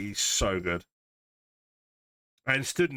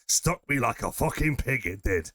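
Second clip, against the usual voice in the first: put-on Northern accent; 2 semitones higher than usual. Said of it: "doing a Northern accent".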